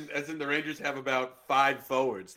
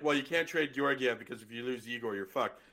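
lower, understated quote of others' argument; retold argument; 4 semitones lower than usual. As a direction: toss off the line people always say. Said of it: "The whole, like".

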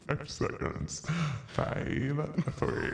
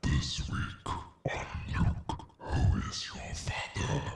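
dramatic trailer voice; 3 semitones lower than usual. Shown as a demonstration. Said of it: "You're losing it somewhere in the middle of the word".

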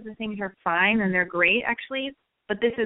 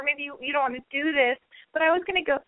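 self-doubting disclaimer; 5 semitones higher than usual. Shown as a demonstration. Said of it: "no disclaimer".

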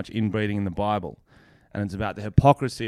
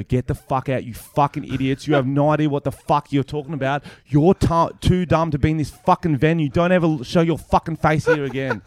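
retold angry yelling; 2 semitones higher than usual. Comedian kicks idiots out of venue, retold angry rant. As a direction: act out throwing someone out, rising in anger. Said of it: "I was yelling that".

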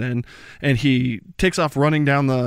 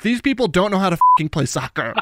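paraphrased captain; 5 semitones higher, faster than usual. Retold or imitated. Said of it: "I'm paraphrasing".

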